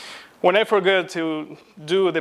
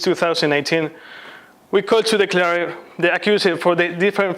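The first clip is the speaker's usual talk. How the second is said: formal indictment. Pretend. Student opens mock trial against himself, formal declaiming. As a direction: declaim it like a court charge.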